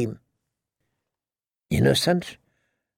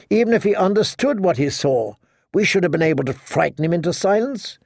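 higher, scolding woman's voice; berating queen; 5 semitones higher than usual. Acted. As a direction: scold him sharply. Cersei scolds Jamie.

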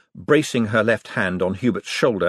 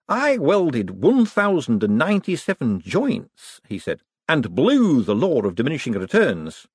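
high, eager nervous inventor; nervous economist boasting to visitors, high and eager; excitable Hubert; 6 semitones higher than usual. Acted. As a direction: gush about the machine, pitched high.

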